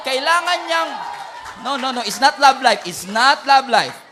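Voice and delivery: loud, emphatic denial; loud playful correction. Real, not acted. Pastor correcting excited congregation, loud and playful. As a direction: wave off the crowd's reaction loudly.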